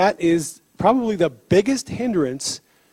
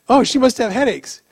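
retold realization; 5 semitones higher, faster than usual. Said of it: "And I'm like".

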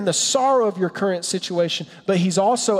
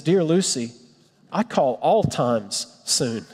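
Aslan; 4 semitones lower, slower than usual. Pretend. Voicing Aslan the lion.

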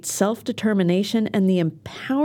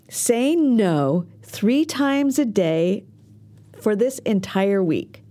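slow emphatic homework; slower than usual. Shown as a demonstration. Teacher hands listeners their weekly homework, slow and emphatic. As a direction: give "Say no three times a day" slowly, word by word. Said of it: "Here's your homework".

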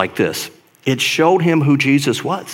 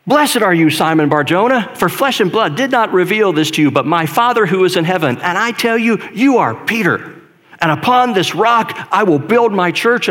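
glowing praise; 5 semitones higher than usual. Retold or imitated. Jesus commending Peter, read.

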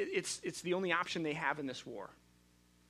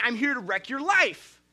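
mock devil voice; 5 semitones higher, 8 dB louder than usual. Pitchfork devil announcing himself.

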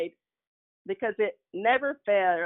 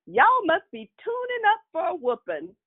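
warning grandmother; 12 semitones higher than usual. Retold or imitated. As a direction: warn the kids they're in for it. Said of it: "she would always say".

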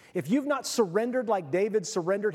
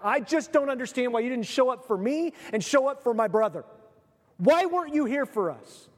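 pleading Martha; 5 semitones higher than usual. Acted. Martha voiced pleading with Jesus.

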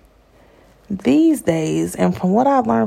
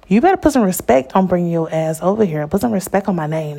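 mock demand; faster than usual. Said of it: "No, I'm playing".

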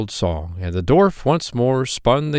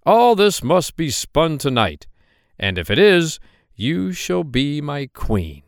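king's command; 5 semitones higher than usual. Acted. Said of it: "and said".

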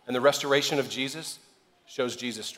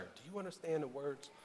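quick, high-pitched comic cop voice, much higher on the second half; Chris Tucker impression; 5 semitones higher, 3 dB quieter than usual. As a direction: imitate a fast-talking action-movie cop. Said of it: "uh, Chris Tucker".

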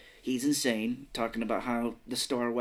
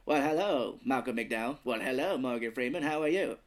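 lightly voiced actor impression; amateur celebrity voices that come out alike; Malcolm McDowell. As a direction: greet them in a rough star impression. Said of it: "when I'm doing Malcolm McDowell".

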